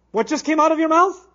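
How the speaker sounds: enraged shout. Shown as a demonstration. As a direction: yell at someone in disbelief and rage. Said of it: "how you speak when you're extremely angry".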